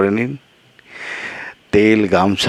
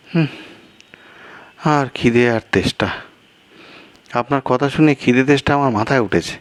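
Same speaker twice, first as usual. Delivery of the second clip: a second character pitched higher, exasperated; higher-voiced guest; 8 semitones higher than usual. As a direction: play the flustered guest, voice raised in pitch.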